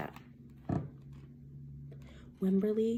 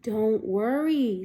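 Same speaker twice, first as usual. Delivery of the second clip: soothing mother; slower than usual. Acted. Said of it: "said her mother".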